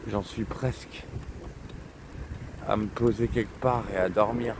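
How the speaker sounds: slurring, tipsy and tired. Real, not acted. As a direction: speak like you've had too much. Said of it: "je suis vraiment éclaté".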